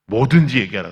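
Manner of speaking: put-on loud, punchy shout of the kids; kids shouting yes. Pastor retelling the kids' eager reply, shouted. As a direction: bark out the kids' eager answer.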